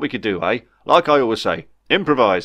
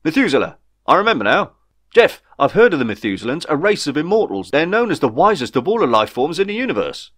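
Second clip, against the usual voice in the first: loud, high burst of realisation; excited character voice, pitched up; enthusiastic; 6 semitones higher, 4 dB louder than usual. A narrator's reading. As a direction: blurt out the discovery eagerly. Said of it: "Ray's newfound enthusiasm".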